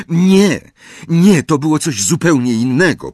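tense, pressed-out denial; through clenched teeth. Acted. Harry rejects Mr Weasley's explanation through clenched teeth. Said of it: "przez zaciśnięte zęby".

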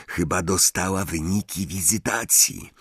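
quiet mutter to a friend; muttered aside. A narrator's reading. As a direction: mutter it under your breath. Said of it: "mruknął". (mruknięcie do Rona, ciszej)

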